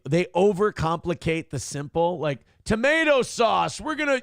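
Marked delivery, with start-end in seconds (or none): 2.6-4.2 higher, hammed-up Italian cook voice; mock Italian cook. Streamer mocking Italian cooks, higher hammed-up voice. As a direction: lampoon the fussy nonna with a raised voice.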